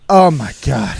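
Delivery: low, disgusted groan of dismay; mock disgust. Worker seeing the customer return, low mock disgust. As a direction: imitate weary disgust, pitch dropped. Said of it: "disgusted that I'm back".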